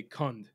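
"cund" with a weakened, voiced final consonant; American pronunciation. Shown as a demonstration. Host showing American speech, final d in "cund". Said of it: "So they tend to say".

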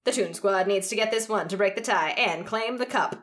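dramatic play-by-play read; sports announcer voice. Shown as a demonstration. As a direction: call the final free throw like a broadcaster. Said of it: "I'm gonna try and do my announcer voice".

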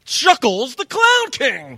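loud, high ring-announcer cry; big announcer call. Shown as a demonstration. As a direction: belt out the name, stretching CLOWN KING. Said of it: "a little closer. One more time".

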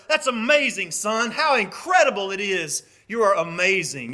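lightly acted fatherly delight; proud father praising. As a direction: marvel at your son's work.

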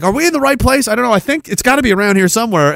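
unsure pilot. Retold or imitated.

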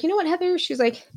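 hint of an upbeat friend; quoting Monica. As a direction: mimic her friend suggesting the garage. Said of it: "She was like".

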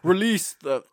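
put-on high, loud try at a British accent that breaks off; a failed British accent attempt; started grand in British, then gave up. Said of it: "I can't do a British accent".

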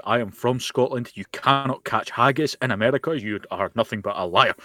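hammed-up indignation, each word weighted; angry Scotsman. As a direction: play up a touch of outraged Scottish pride. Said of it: "played up the angry Scotsman part".

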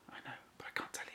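fast teasing whisper. Real, not acted. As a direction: whisper it like a secret.

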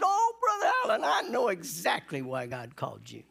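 retold laughing reply. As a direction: imitate a friend cracking up as he answers. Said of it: "he started laughing".

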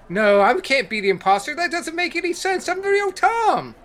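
rapid, rattled denial; fast panicked. Acted. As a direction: rush it out in a panic.

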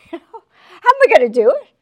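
How am I gonna do it yelled high and loud; loud mock cry. Shown as a demonstration. Preacher voicing a worried believer, loud mock cry. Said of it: "repeated after a laugh".

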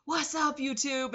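high, bright YouTuber hello; mock YouTuber greeting. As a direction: imitate the YouTuber's catchphrase. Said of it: "somebody will just write".

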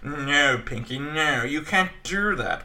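lightly voiced Orson Welles impression; drawn-out refusal from a scheming cartoon mouse; Brain. Mastermind mouse refusing his idiot partner, a hint of Orson Welles. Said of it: "It's Orson Welles".

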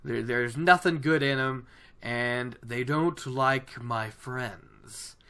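a hint of a solitary old woodsman; lightly voiced old man. Old man telling travellers about his friends, lightly voiced. Voicing old wolf man's dialogue.

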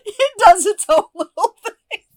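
laughing through a painful foot cramp. Real, not acted. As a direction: laugh and wince, toe cramping. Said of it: "I have a foot cramp".

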